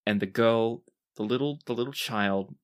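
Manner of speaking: measured storytelling with deliberate pauses; game master narration. Acted. Game master sets the scene.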